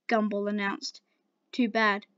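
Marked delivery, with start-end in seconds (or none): 1.5-2.0 blank. Acted. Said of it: "Garnet blankly replied".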